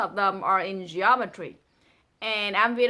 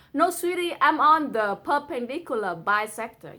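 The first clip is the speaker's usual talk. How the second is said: put-on girl's reply; 2 semitones higher than usual. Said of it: "a girl responding".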